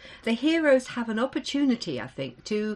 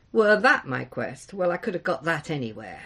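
sighing; 5 semitones lower than usual. Acted. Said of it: "sighed the Buckluck".

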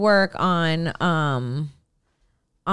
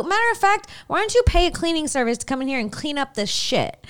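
sassy; 6 semitones higher, faster than usual. Retold or imitated. Telling off the smoke inspectors.

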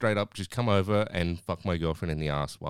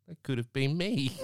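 slow, higher mock lament; mock sad; 5 semitones higher, slower than usual. Worker lamenting the chance he missed, mock sad. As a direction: draw it out in comic regret. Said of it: "You can see how sad he looks".

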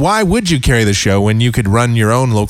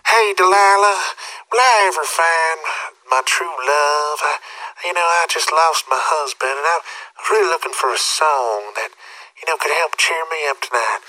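hammed-up lonely caller, softer and trailing; mock sad caller; 3 semitones higher, 4 dB quieter than usual. A sad caller pleading with Delilah on the radio, softly. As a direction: play a down-and-out woman calling the radio show. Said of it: "she has them on, like".

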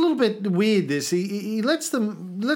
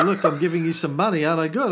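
mock smug giver; 3 semitones lower, much faster than usual. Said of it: "Chrissy giving me a hundred bucks and saying".

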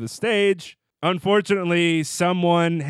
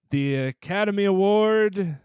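unsure; 2 semitones higher than usual. Retold or imitated. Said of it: "sound a little unsure".

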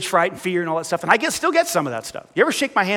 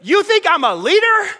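voiced Moses, higher and louder, protesting; Moses pleading; 5 semitones higher, 3 dB louder than usual. Preacher voicing Moses protesting to God, higher pitched pleading. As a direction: plead like a reluctant man denying he's a leader.

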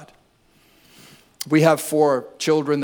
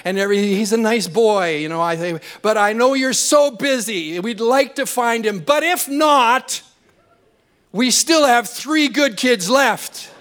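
overly polite Canadian; 3 semitones higher than usual. Retold or imitated. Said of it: "More Canadian".

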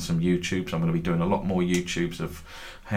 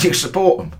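put-on high-pitched drunken accusation; retold drunk fan; 9 semitones higher, 6 dB louder than usual. Drunk Hearts fan accusing the speaker, high-pitched insistence. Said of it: "He said".

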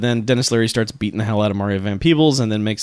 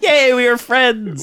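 high, drawn-out gleeful cheer; mock joy; 12 semitones higher, slower than usual. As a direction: cheer slowly like a delighted child. Imitates Lambert's childish joy.

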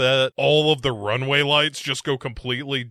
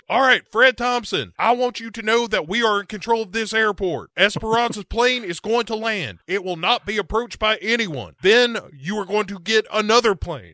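villain colonel; 5 semitones higher than usual. Retold or imitated. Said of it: "Colonel Naked Bad Guy is like".

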